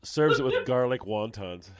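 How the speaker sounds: laughing through the punchline, slowed down; can barely get the words out for laughing. Real, not acted. Amused host tells guest about Christine's cooking, laughing.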